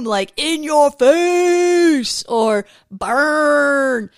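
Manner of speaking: drawn-out laughing exclamation. Real, not acted. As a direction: stretch it out while laughing. Laughing at Jesus's comeback.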